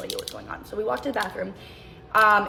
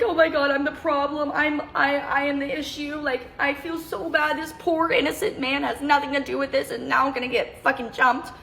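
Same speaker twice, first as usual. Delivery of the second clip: panicked inner voice; 5 semitones higher than usual. Retold or imitated. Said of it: "I'm like".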